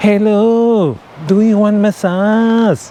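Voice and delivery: mock very slow, high, drawn-out nagging voice. Imitating women heard when visiting Thailand: imitating a nagging voice. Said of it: "talk in a nagging voice like".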